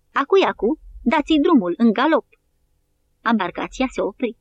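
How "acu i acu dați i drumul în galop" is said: rally the soldiers with a raised shout; shouting to his men. A narrator's reading. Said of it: "De Lacy strigă soldaților săi". (strigăt de îmbărbătare către soldați)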